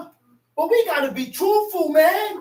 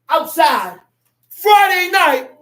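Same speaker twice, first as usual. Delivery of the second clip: preaching shout; 7 dB louder than usual. Acted. Preacher shouting rebuke at sinner.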